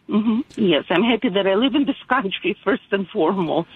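usual speaking voice

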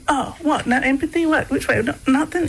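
mock-indignant string of questions; mock incredulous. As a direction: retell a child's disbelief at getting no sympathy. Child's indignant reply to unsympathetic dad.

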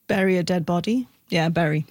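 "bury" rhyming with "ferry"; short e in "bury"; bury like berry. Shown as a demonstration. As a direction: say "bury" as BERR-ee. Answers which pronunciation she uses.

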